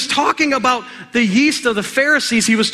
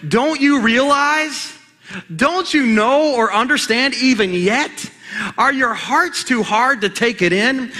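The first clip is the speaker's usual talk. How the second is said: raised, slow, exasperated rebuke; frustrated Jesus; 4 semitones higher than usual. Acted. Jesus scolding his forgetful disciples, exasperated and raised. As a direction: scold them like a fed-up teacher. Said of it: "this is how Jesus was saying it".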